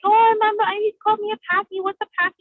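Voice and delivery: high-pitched retold child complaint; upset child. Crying child telling dad what happened, high retold complaint. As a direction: voice your younger self, pitched well up.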